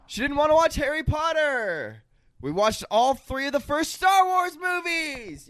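high, shouted bragging bro voice; mock bro shout. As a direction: brag it out like a dude. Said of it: "shouting a really good thing".

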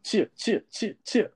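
high cheer cheer chant; mock cheering. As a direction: cheer like a tiny crowd.

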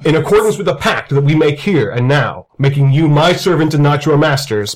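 lightly voiced commanding old wizard; a hint of stern, formal authority; Christopher Lee mode. Wizard binds the Dread Knight by pact, lightly voiced grandfatherly authority. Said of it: "Christopher Lee mode".

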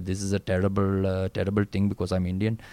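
lightly put-on Indian South African accent. Guest imitating his Indian school friends, with an Indian South African accent. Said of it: "talking like".

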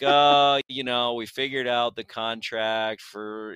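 mock glum fan, opening on a groan; a touch of hangdog gloom; Eeyore. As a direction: lightly imitate a resigned, doubtful fan. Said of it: "he kinda had the Eeyore thing going on".

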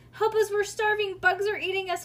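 high, loud plea for rescue; urgent high yelling; hollered. A narrator's reading. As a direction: holler it dramatically for help. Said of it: "hollered Bean".

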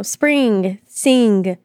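SPRING and SING with the G sounded at the end; enunciated G. Shown as a demonstration. Friend showing co-host how she says spring and sing, enunciated G. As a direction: say "Spring" and "sing" with an audible final G. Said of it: "why does she enunciate the G like that".

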